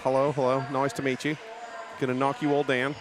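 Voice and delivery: lightly put-on Australian accent; bad Australian accent. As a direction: imitate an Aussie skater, badly. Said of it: "That's my bad Australian accent".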